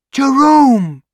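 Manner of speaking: high, loud, drawn-out squeal of a name; excited scream. A narrator's reading. Sister spots her brother in the doorway, screaming. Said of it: "and screams".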